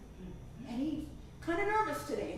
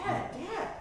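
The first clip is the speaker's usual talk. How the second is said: worried; 7 semitones higher than usual. Retold or imitated. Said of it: "I was worried".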